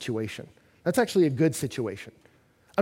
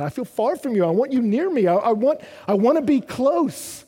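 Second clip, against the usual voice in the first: earnest plea; 8 semitones higher, 5 dB louder than usual. Acted. Acted plea to a spouse.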